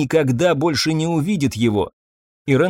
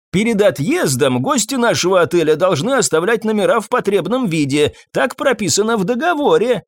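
called out; 7 semitones higher than usual. A narrator's reading. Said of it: "крикнул ей хозяин".

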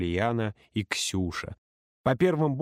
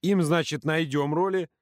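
raised, indignant protest; furious outburst; 5 semitones higher, slower than usual. Acted. Юрка furious at being left to babysit, angry outburst. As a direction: spit it out in outrage. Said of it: "взбесился Юрка".

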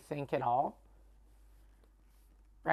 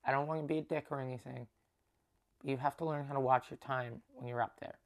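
low, soft voice of gentle advice; calm, non-confrontational; 3 semitones lower, 5 dB quieter, faster than usual. Retold or imitated. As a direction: tell him quietly, without attacking. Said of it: "that's how I said it".

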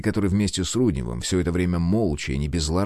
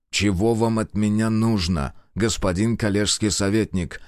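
annoyed question. Acted. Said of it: "досадливо спросил он".

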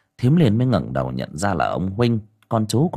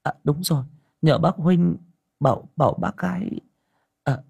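higher, hesitant woman's voice; 6 semitones higher than usual. A narrator's reading. Liên flusters and asks Huynh for help, in a higher voice. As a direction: stumble over the words, then find an idea.

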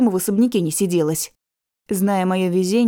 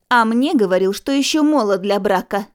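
indignant exclamation. Acted. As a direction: call out offended. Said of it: "недовольный возглас".

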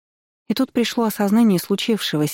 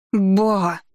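protesting shout; 3 semitones higher than usual. A narrator's reading. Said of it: "громче прежнего закричала я".

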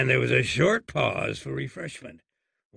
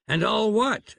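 puzzled question; 9 semitones higher, 3 dB louder than usual. Acted. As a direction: pitch jumps up on what, baffled. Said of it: "asked the doctor".

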